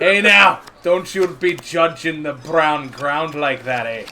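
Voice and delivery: lightly voiced gruff dwarf, loud opening jab; a hint of a touchy dwarf defending his ground; dwarf NPC. Dwarf scolds the gnome over brown ground, lightly voiced.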